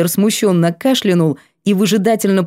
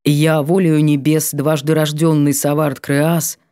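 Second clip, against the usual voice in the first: solemn vow; 3 semitones lower than usual. A narrator's reading. Lord formally proposes to Katya, solemn vow. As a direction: declare it like a binding oath.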